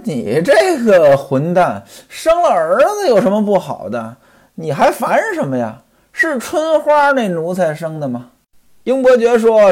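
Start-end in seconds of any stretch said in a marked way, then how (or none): 0.0-8.3 storyteller's understated scolding; mild mock scolding. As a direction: tell off a friend in mock exasperation. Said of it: "西门庆就骂了".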